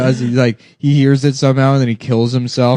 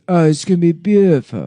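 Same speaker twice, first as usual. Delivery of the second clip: raised, slurred caricature voice; lightly exaggerated impression, pitched up; Donald Trump; 4 semitones higher than usual. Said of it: "mannerisms of Trump with a retarded voice".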